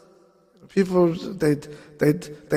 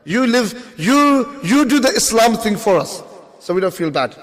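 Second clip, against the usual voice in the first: higher, smug mock voice; mocking whine; 5 semitones higher than usual. Mocking Muslims who leave Gaza to fight, in a higher whine. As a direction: whine like a comfortable hypocrite.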